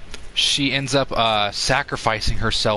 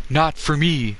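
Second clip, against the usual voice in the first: lightly voiced Vin Diesel, a bit higher; Vin Diesel impression; 5 semitones higher, slower than usual. Streamer retelling the movie scene, mild Vin Diesel imitation. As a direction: poke fun at how the actor said it. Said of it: "really fucking weird how he says it".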